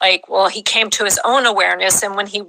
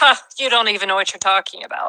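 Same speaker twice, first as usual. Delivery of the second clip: put-on mocking laughter. Retelling how the beings sounded, imitating mocking laughter. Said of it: "It was almost like mockingly laughing".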